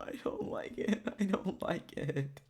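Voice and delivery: very soft, almost under the breath; uneasy murmur. Real, not acted. Streamer uneasy at the boss's offer, soft uneasy murmur. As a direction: shrink back and repeat it quietly.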